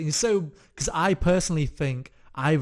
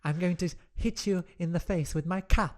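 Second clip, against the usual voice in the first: mock Queen's English threat; hammed-up received pronunciation; 2 semitones higher than usual. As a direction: play at RP menace, lightly put on. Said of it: "the Queen's English".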